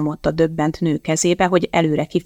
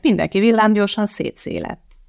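plain reading voice

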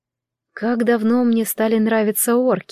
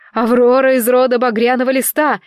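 громкий крик; 3 semitones higher, 4 dB louder than usual. Acted. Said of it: "снова закричала я".

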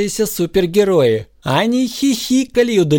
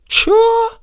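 very high startled squeak; a sudden baffled yelp; startled Wonder Woman; surprised; 3 dB louder than usual. A narrator's reading. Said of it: "удивилась суперженщина".

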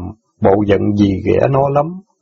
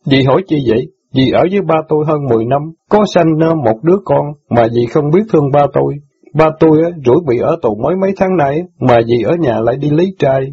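higher, lightly voiced teen boy, hurt and reproachful; indignant boy; 5 semitones higher than usual. Son reproaches sister for forgetting jailed father, lightly voiced. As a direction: scold her like a wounded son.

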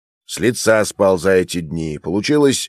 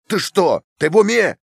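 outraged disbelief; 10 semitones higher than usual. A narrator's reading. Academic berates Fyodor for losing the seeds, in shocked disbelief. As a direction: voice jumps high in shocked rebuke.

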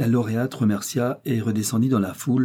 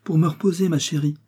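higher, tender reassurance; gentle; 7 semitones higher than usual. A narrator's reading. Sick mother to her daughter, gently reassuring. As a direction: soothe a worried child gently. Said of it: "affirma doucement madame Lancier".

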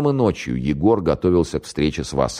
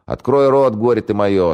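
mock scolding mother; 7 semitones higher, 6 dB louder than usual. Lieutenant spoon-feeding the "idiot" son.

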